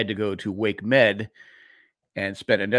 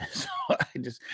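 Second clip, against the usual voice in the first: normal talking voice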